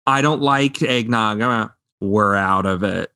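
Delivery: imitated deadpan comic refusal. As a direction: deliver the punchlines without any excitement. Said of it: "then you get the deadpan".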